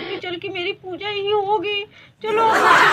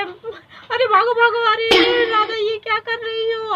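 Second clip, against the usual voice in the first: panicked shout; 4 semitones higher, 4 dB louder than usual. Acted. Husband flees, calling out.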